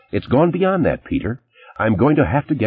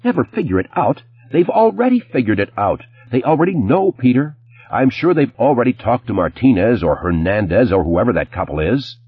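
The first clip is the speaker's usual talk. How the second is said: exploding; 6 semitones higher than usual. A narrator's reading. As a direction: burst out in fury. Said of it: "she really exploded".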